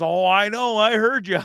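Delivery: a hint of a dry old woman; old lady voice. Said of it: "she goes".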